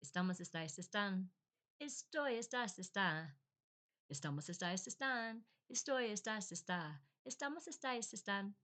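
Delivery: sing-song conjugation drill; rote recitation. Retold or imitated. Learner recalling Spanish class verb conjugations, rote chanting.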